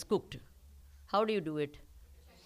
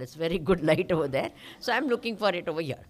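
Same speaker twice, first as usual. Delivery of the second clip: quick, louder, laughing through the words; laughing explanation; 7 dB louder, faster than usual. Retold or imitated. Village lady laughing as she explains searching outside. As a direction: chuckle it out fast like it's obvious.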